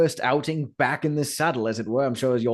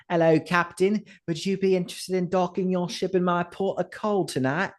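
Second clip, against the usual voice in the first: higher, coy come-on voice; flirty streetwalker; 7 semitones higher than usual. Acted. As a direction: purr the pickup line at a passing gent. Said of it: "her usual, uh, tagline for all the passing gents".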